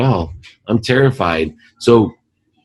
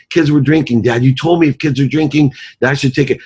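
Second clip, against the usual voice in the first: put-on defensive teen daughter; 7 semitones higher than usual. Daughter defends herself in imagined quarrel.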